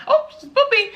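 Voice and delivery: high, breezy no-big-deal voice; casual midwife. Retold or imitated. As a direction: toss it off lightly like the midwives.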